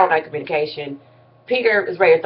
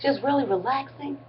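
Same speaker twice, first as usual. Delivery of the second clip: calming voice; 5 semitones higher, 10 dB quieter than usual. Retold or imitated. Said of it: "real calming voice".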